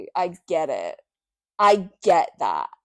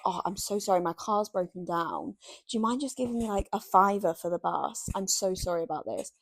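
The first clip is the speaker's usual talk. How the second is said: mock apologetic stranger; 2 semitones lower, 10 dB quieter than usual. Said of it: "They're like".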